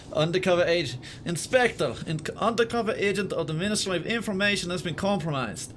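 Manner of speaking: loosely put-on Russian accent; a hint of mock Russian officialdom; rough Russian accent. Gamer reading a ministry bulletin, loose Russian accent. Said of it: "get the accent a bit more Russian".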